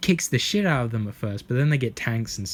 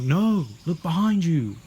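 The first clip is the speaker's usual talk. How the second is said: mock warning; 5 semitones higher, 3 dB louder than usual. Voicing imagined warning about ape.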